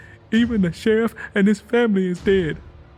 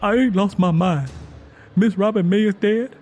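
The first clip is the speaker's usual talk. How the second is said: higher and louder, desperate; frightened insistence; 8 semitones higher, 5 dB louder than usual. A narrator's reading. Tangy May warning everyone of death, high, loud and desperate. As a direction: insist the devil walks, terrified.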